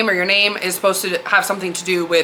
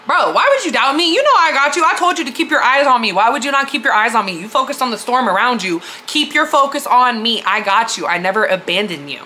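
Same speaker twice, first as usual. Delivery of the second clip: exasperated father figure; 3 semitones higher than usual. Retold or imitated. Jesus to Simon after the rescue, retold fatherly exasperation. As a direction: chide him with reassurance, without condescension. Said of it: "kinda like a father figure type shit".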